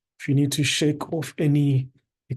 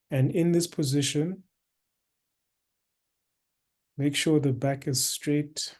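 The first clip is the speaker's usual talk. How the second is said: guided meditation. Acted. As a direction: guide listeners into stillness, unhurried, with long pauses.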